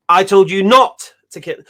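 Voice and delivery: not hit hard and loud; stress on not. Shown as a demonstration. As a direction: punch the word not. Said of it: "if you just emphasize".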